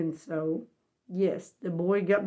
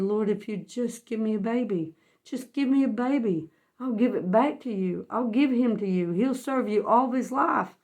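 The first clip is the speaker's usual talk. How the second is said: earnest retold prayer, bargaining with God; desperate plea; 2 semitones higher than usual. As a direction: plead for it, lifting the pitch on the repeat. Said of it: "wanted a baby so bad".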